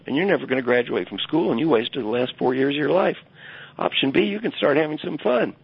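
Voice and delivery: high, emphatic mentor laying out choices; stern advisor ultimatum. Retold or imitated. Advisor giving his student two choices, high emphatic ultimatum. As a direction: deliver the ultimatum like a no-nonsense professor.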